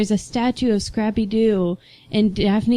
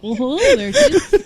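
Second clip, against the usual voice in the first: put-on high cartoon greeting; laughing, high-pitched character voice; Scrappy-Doo inside Mister Bean; 9 semitones higher than usual. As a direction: greet them in a silly high impersonation. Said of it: "Scrappy-Doo inside of Mister Bean".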